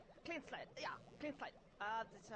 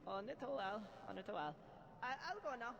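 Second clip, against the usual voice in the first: put-on German accent; 4 semitones lower than usual. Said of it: "pretty bad German accent".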